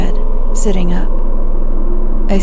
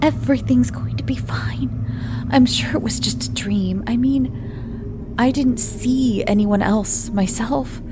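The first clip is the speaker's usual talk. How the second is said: calm; 5 semitones higher, 7 dB quieter than usual. Acted. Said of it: "I tried to keep my voice calm".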